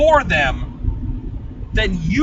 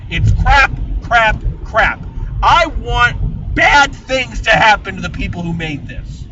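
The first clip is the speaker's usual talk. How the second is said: angry verdict; 3 semitones higher, 3 dB louder than usual. Real, not acted.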